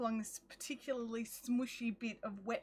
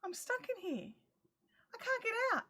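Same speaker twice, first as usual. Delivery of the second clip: higher, softer, whiny trapped plea; mock panic; 8 semitones higher, 4 dB quieter, faster than usual. Trapped in the shack, calling out in mock distress, much higher. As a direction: play the trapped wail lightly. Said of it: "I was just like".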